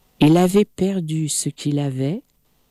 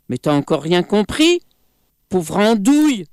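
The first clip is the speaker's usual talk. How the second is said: monkey yelling; faster than usual. Acted. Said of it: "hurla le singe".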